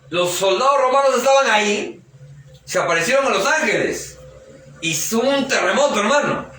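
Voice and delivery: high-pitched, dramatic pulpit storytelling; preacher swept up in the telling; excited preaching. Real, not acted. Preacher retells soldiers fleeing angels.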